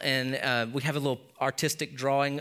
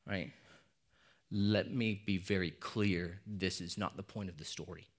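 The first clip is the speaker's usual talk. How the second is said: quiet earnest aside; 4 semitones lower, 4 dB quieter than usual. Real, not acted. Pastor telling listeners not to judge the woman, softly sincere. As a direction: lower the voice to level with them gently.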